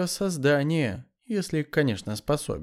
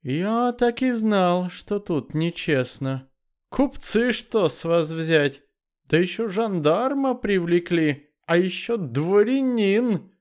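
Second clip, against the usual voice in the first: slow, scornful and a touch louder; spitting contempt; 4 semitones higher, 3 dB louder than usual. Acted. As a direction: spit the words out in disdain. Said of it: "Осуждающий чуть ли не выплёвывает слова".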